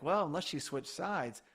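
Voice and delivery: lightly tossed-out guess; speculating. Retold or imitated. Host recalling an earlier guess to co-host, speculating. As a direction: float it as a possibility.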